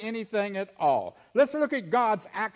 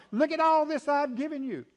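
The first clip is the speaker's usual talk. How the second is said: voicing God; 5 semitones higher than usual. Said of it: "God was focused on".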